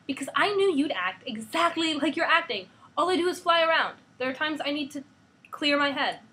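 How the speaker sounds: put-on high, loud, upset girl; angry teen. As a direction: shout it back at her father. Hope argues, raised voice.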